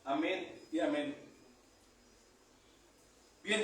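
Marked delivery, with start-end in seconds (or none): 0.0-1.1 murmured pastor's prayer, pleading and steady; fervent prayer. Acted. Pastor praying over his congregation, fervent plea.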